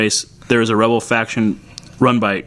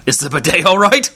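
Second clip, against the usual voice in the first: high, mock-posh Aussie official; Australian character voice; 7 semitones higher than usual. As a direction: play a flustered minister.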